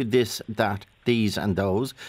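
slow, separated "this, that, these and those"; careful TH sounds. Shown as a demonstration. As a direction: spell out each TH in "this, that, these and those", slowly. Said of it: "don't pronounce their T Hs".

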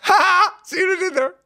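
loud high burst of laughter; big laugh. Real, not acted. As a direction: crack up at your own joke. Host laughs at own joke.

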